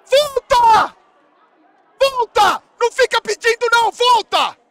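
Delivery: high, loud barked order; commanding yell. Real, not acted. Streamer screaming at his player to get back.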